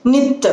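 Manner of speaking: नित closing on a held t. Shown as a demonstration. Teacher showing students the hold, नित with held t. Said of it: "hold the it".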